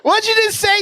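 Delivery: high, mock incredulous; surprised. Real, not acted. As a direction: feign shock. Mock disbelief at co-host.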